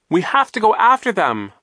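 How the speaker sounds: high, loud, urgent plea; frantic high-pitched shout; desperate scream. A narrator's reading. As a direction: scream for pursuit. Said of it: "Violet screamed".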